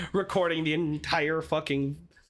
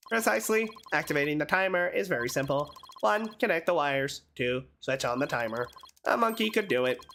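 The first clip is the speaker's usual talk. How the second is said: robot voice; 4 semitones lower than usual. Acted. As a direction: taunt like a machine. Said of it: "what a strange robotic voice you have".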